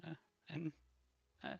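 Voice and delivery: sweet goodnight from a waitress. Acted.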